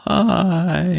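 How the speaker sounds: long, high-pitched bye; sing-song farewell. Pretend. Co-host signs off the podcast, high drawn-out farewell. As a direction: stretch the goodbye out high.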